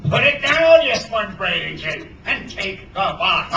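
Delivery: loud, high burst, then slowing; exasperated scolding. A narrator's reading. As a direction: scold a useless mate as captain. Hook scolds his slow mate.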